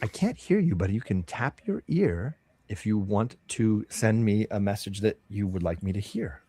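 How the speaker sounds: lightly voiced helper over an earring; voice in the ear. Earring voice telling Bob how to reply, lightly played helper. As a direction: lightly play an unseen guide explaining the device.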